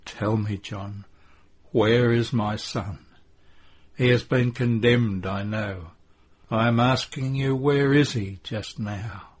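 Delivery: short sentences with pauses between; faltering, anguished questioning; halting, as if panting. A narrator's reading. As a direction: pause for breath between phrases. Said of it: "pauses between the short sentences, as if she were panting".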